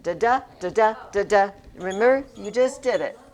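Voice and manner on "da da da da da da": da DA rhythm chanted; sing-song da-DA pattern; iambic beat. Shown as a demonstration. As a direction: tap out the iambic stress. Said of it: "What was iambic?".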